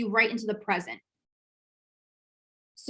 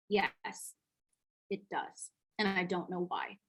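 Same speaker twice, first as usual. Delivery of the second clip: stunned; 4 semitones lower, 9 dB quieter, slower than usual. Retold or imitated. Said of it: "I was, like, shook".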